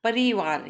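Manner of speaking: परिवार with a long री in the middle; wrong pronunciation demo. Shown as a demonstration. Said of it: "ये wrong है".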